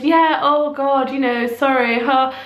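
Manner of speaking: a mild reenactment of a panicked apology to another mum; flustered apology. Retold or imitated. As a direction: gabble out an embarrassed excuse. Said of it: "meltdown mode where I apologised".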